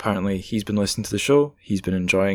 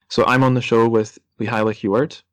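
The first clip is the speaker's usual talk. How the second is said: distorted mic; 5 dB louder than usual. Real, not acted. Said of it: "if my voice sounds a bit crap at points".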